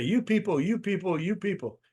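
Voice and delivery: talking down to audience. Acted. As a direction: imitate a speaker addressing the crowd as outsiders. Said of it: "Don't get up there and say".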